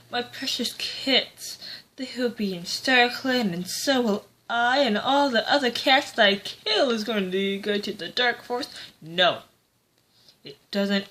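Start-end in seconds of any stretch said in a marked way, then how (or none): 0.1-8.7 lightly voiced doting cat mother, pitched up; higher, half-mocking singsong of a fond mother. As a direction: mockingly coo a deluded mother's hopes. Mocking Mapleshade's hopes for her kits.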